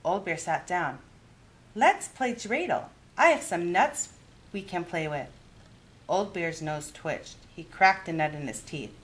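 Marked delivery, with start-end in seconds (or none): 1.8-5.3 a higher, lively grandmother voice; kindly old granny offering a game; Baba Bryna's voice. Acted.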